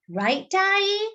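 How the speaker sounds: high, hopeful appeal to Mama; seeking backup. Acted. Girl asks Mama to back her up, high and hopeful. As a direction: turn to Mama for support.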